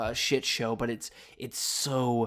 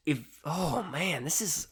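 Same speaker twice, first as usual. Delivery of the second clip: normal talking voice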